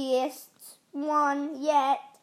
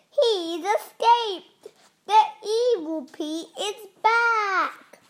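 alarmed; 5 semitones higher, 4 dB louder, slower than usual. A narrator's reading. Vegetables announce villain's escape.

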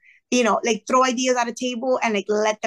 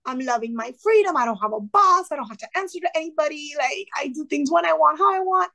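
flustered refusal that climbs higher; freaking out; 4 semitones higher than usual. Retold or imitated. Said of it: "freaking out at her".

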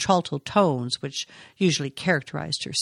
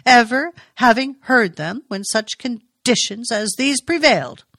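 formal; 6 semitones higher, 5 dB louder than usual. A narrator's reading. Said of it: "speaking almost formally".

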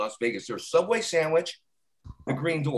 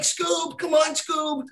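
calling the dog; 7 semitones higher, 3 dB quieter, much slower than usual. Acted.

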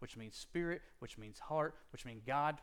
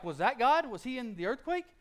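high, loud startled question; loud amazed asking; 10 semitones higher, 8 dB louder than usual. Retold or imitated. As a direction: ask it like the ground just split. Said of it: "they're like".

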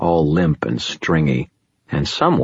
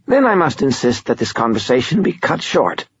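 wheezy nasal voice; 9 semitones higher than usual. Acted. Glau cuts Murphy off.

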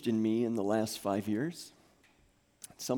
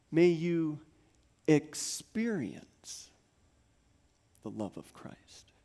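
slowing into a whisper; 3 semitones higher, slower than usual. Acted. Pastor blessing congregation, slowing to a whisper. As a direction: stretch experience, whisper the rest. Slowed prayer fading to whisper.

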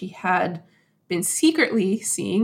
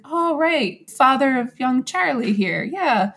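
higher, mock casual acknowledgment; a knowing, playful nod; lightly voiced husband, raised pitch; husband catching on; 5 semitones higher, 4 dB louder than usual. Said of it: "and he's like".

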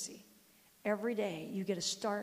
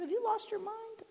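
scolding; 10 semitones higher than usual. Retold or imitated. Grandma scolding disobedient grandson.

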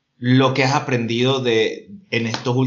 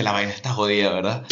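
weary sigh; 4 semitones lower than usual. Retold or imitated. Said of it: "suspira y me dice".

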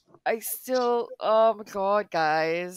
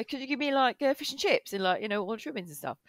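hammed-up British accent, lifted pitch; Tom Holland; 3 semitones higher, 5 dB quieter than usual. Imitating an actor at the chippy, mock British accent. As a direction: play a caricature Brit ordering chips. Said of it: "full on British accent".

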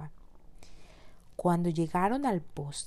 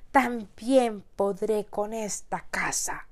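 slow, loud furious wolf; angry wolf; 3 semitones higher, 5 dB louder, slower than usual. Acted. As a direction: growl it out in anger. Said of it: "gritando enfurecido".

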